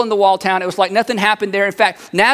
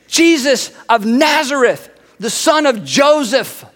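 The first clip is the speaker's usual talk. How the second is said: higher, slow, grand announcement; excited naming; 4 semitones higher, slower than usual. Acted. Philip names the man they found, excited. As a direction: present the name with weight. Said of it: "he's so excited about this".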